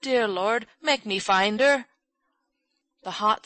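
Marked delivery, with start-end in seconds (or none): 0.0-1.9 desperate, raised plea; hoarse plea. A narrator's reading. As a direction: beg heaven hoarsely, drawing out the start. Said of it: "said Ben hoarsely".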